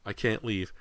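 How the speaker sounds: refuse, holding back the shriek; mild protest. A narrator's reading. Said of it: "Missus Fraser shrieked".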